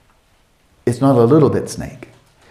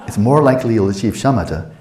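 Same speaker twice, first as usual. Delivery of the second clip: laughing. Real, not acted. Laughing at own joke.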